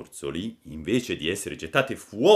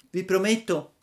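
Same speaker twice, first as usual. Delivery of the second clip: sobbing; 12 semitones higher, 4 dB louder than usual. Acted. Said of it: "disse il burattino singhiozzando".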